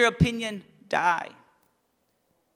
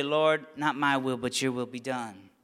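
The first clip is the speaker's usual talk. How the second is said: much softer and lower, reverent surrender; hushed prayer; 8 semitones lower, 5 dB quieter than usual. Acted. Preacher repeats Gethsemane prayer to the congregation, hushed and low. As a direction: breathe it gently as a quiet prayer.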